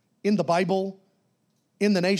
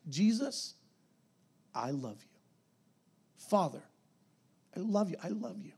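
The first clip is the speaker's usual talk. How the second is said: soft, hushed declarations of love; a believer murmuring love to the Father, softly; quiet tender prayer; 3 semitones lower, 9 dB quieter than usual. Shown as a demonstration. Demo of quiet devotion.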